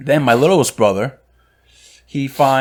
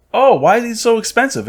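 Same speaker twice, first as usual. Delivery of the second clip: high-pitched, mock-innocent query; imitated surprised question; 11 semitones higher, 3 dB louder than usual. Brother asking the clerk about a pricey cigar, imitated surprise. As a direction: imitate a puzzled customer, pitched well up.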